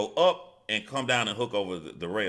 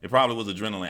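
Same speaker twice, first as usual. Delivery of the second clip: high, loud laughing bark of an order; laughing drill yell; 7 dB louder, faster than usual. Retold or imitated. Retelling the sergeant's urging, high loud laughing yell. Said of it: "after they said".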